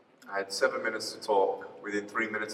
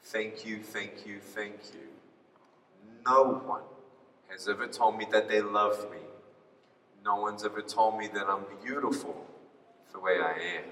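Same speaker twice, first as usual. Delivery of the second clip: whispered thanks; 4 semitones lower, 6 dB quieter than usual. Retold or imitated. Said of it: "she whispered in my ear".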